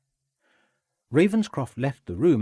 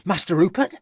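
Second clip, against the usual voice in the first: calling out hopefully; 8 semitones higher, 6 dB louder than usual. A narrator's reading. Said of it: "called out the cook, hopefully".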